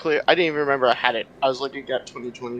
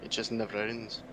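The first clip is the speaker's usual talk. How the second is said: light Irish lilt on the line; a hint of Irish brogue; Irish accent; 7 dB quieter than usual. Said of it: "that's really hard to do in that accent".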